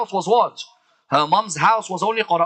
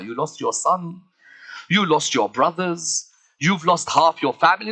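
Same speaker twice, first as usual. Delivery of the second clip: usual speaking voice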